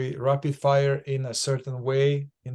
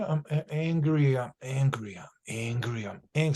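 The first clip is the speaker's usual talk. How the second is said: anger with bite; 2 semitones lower, 4 dB quieter than usual. Shown as a demonstration. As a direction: put bite into the word angry, pitched down. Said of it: "Can you provide some biting?".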